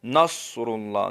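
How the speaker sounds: نصر اللہ with the ر fully sounded; correct pronunciation. Shown as a demonstration. Teacher slowly models نصر اللہ with a clear ر. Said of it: "نص نہیں".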